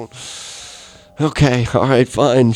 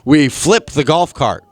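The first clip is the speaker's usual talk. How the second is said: higher, a mock-casual sister with a laugh; 6 semitones higher, 3 dB louder than usual. Sister calling to say they flipped the golf cart, higher and sheepish. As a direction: act out the sister breaking the bad news lightly. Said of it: "it's my sister going".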